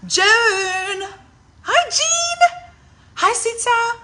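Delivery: high bright greeting calls across the room; calling out. Real, not acted. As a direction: call out hello to friends arriving.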